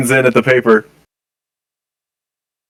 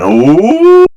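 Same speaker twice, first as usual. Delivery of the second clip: knowing oh; 11 semitones higher, 6 dB louder than usual. Acted. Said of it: "kind of a look".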